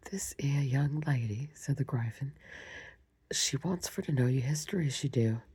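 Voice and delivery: a hint of a rough Cockney Gryphon, dropped h, whispered. Shown as a demonstration. Reader tries a Gryphon voice for the listeners, lightly voiced. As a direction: lightly put on a common creature's twang. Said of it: "so let's do a voice for the Gryphon".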